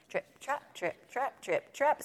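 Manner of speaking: high, light "trip, trap"; light goat hooves. A narrator's reading. Second goat crossing the bridge, high light hoofbeats.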